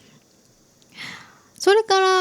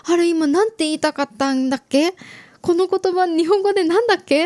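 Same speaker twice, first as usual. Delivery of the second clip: quick, higher, flustered muttering to herself; panicked inner voice; 5 semitones higher, faster than usual. Retold or imitated. Herself, forgetting a Japanese word, rushed and flustered. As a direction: rush it like words just vanished. 一人でパニック.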